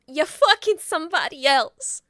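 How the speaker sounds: imitating a screaming girlfriend; mock scream. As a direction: yell it as a hammed-up accusation. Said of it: "starts screaming at him".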